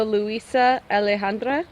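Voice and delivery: put-on rolled R, Spanish accent. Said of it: "My Spanish accent?".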